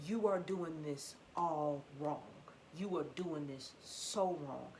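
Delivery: slow, deliberate scolding in a changed voice; scolding inner voice. Retold or imitated. Her illness slowly telling her she has it all wrong. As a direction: spell out each word like a stern warning.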